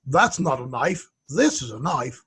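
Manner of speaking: mock Australian accent, slow; Australian movie quote. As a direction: drawl it out like the Aussie knife line. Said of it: "is this an Australian saying".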